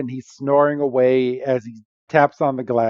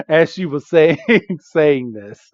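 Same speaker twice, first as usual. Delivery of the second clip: breaking into real laughter mid-sentence; can't get the words out for laughing; 3 semitones higher than usual. Real, not acted. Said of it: "I had to laugh".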